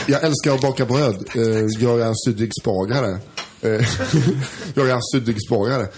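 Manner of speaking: Swedish with a light French accent; understated French accent, lightly in the background; hesitant French-accented Swedish, not overdone. Shown as a demonstration. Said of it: "Han pratar så här".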